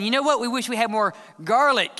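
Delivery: mock craving. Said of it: "the body of Christ is saying".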